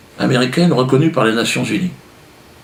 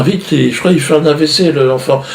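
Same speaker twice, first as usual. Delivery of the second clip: mock panicked fairy; 5 semitones higher, 4 dB louder than usual. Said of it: "Elle appelle le médecin".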